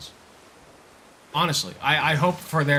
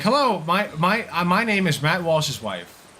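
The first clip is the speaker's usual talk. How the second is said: Matt Walsh as his wife; 5 semitones higher, 3 dB louder, slower than usual. Retold or imitated. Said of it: "And he's like".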